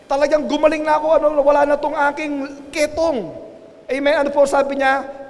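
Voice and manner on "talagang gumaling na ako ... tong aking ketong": quick, higher, mildly acted amazement; retold excited discovery; amazed at being healed. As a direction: blurt it like the healed man. Voices the newly healed leper.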